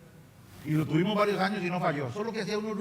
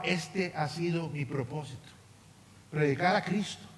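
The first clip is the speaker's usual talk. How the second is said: earnest spoken prayer. Acted. Pastor praying over the church, earnest prayer voice. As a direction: pray over the congregation, steady and sincere.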